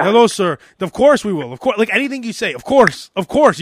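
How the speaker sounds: fawning service voice, agreeing to everything; overly polite tire shop guy. Retold or imitated. Tire shop clerk eagerly reassuring a customer, fawning. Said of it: "the guy who speaks English who's very nice".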